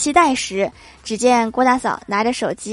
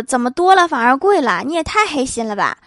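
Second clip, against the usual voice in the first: mildly indignant surprise, slightly raised; surprised protest; 2 semitones higher than usual. Acted. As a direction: protest in mild disbelief. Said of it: "大伙惊讶地说".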